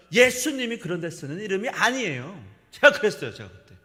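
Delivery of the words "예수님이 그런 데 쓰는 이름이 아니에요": loud, indignant retort in Korean; retold indignant protest. Pastor retelling his protest to the hospital staff, loud and indignant. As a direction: scold them that the name is not for that. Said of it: "제가 막 한국말로 그랬다니까요".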